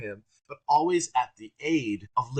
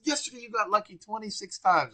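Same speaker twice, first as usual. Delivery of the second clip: higher teasing mock voice; loud crazy Gary; 10 semitones higher than usual. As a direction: tease him in front of the room. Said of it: "to be loud and crazy and funny".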